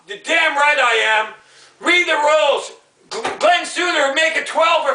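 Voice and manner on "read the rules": firm, annoyed repeat of the order; angry demand. Real, not acted. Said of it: "Okay, I'm pissed off".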